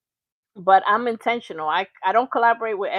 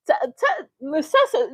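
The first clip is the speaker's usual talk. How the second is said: high excited call to Texas; 6 semitones higher, 3 dB louder than usual. Real, not acted. Host calling out to Miss Texas, excited high call. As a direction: call her name, way up.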